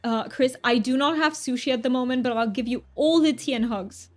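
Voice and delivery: amateur English accent put on for fun; hammed-up mock British; terrible British accent. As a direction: do a playful, imperfect British accent. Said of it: "one more time British accent".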